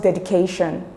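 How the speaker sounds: "dedication" with the stress on "ca"; stress on the K syllable. Shown as a demonstration. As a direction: lean on the "ca" in "dedication". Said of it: "the stress is in K".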